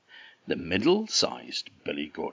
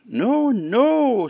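very high, loud goat pleading; bleating like a ram; 8 dB louder than usual. Acted. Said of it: "said the billy goat".

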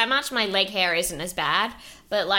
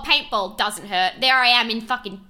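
normal talking voice

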